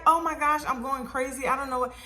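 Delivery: high, flustered babble; retold panic, words tumbling out; overwhelmed, coming down from a peak; going crazy. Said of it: "I was a little crazy on the phone".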